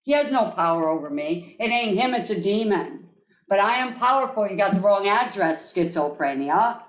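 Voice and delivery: firm, steady self-affirmation; confident mantra, said again and again; repeated mantra. Shown as a demonstration. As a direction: chant it to yourself like armour. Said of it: "until you learn it".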